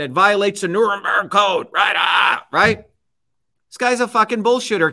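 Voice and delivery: real anger breaking through, shouting; heated shout at a hypocrite; angry outburst. Real, not acted. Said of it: "It gets me so angry".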